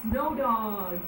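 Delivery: slow, high grand announcement; slow high showman's announcement; announcing yell. Acted. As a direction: present her like a showman. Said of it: "yelled Martin".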